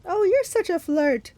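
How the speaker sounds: slow, high, loud falsetto flirting; gushing put-on bridal voice; Grover. A narrator's reading. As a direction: tease like a fake bride.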